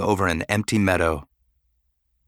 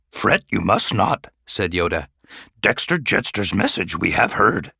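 put-on calm, reassuring old master; Yoda voice. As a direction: soothe the worried student.

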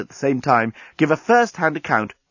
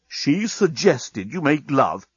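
slow, incredulous repetition; stunned, drawn-out words; disbelieving; 2 semitones higher, slower than usual. Acted. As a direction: spell it out slowly in disbelief. Dan slowly repeats the shocking news.

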